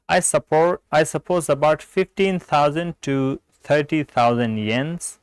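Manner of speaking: slow, measured dialogue reading; textbook read-aloud. Acted. Teacher reads a hotel-price dialogue to learners, measured read-aloud. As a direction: read the exercise slowly, without acting the parts.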